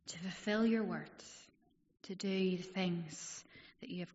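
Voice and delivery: hushed congregational prayer. Real, not acted. Opening prayer before the sermon.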